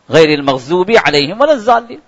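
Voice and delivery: الضالین said with z for ض, rising tune; mispronounced recitation. Shown as a demonstration. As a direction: recite with the common z slip in الضالین, lifting the end. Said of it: "زا کے sound سے ہم نے استعمال کیا".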